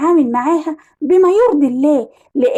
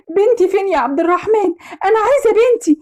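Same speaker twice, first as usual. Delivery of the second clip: higher-pitched, pleading demand; distraught mother; 4 semitones higher than usual. Acted. Mother to her husband after the kidnapping, distraught. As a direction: plead for your missing child.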